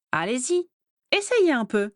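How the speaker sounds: a delighted, teasing dare, rising at the end; gleeful taunt. A narrator's reading. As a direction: goad them on, enjoying it. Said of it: "ravie de la tournure".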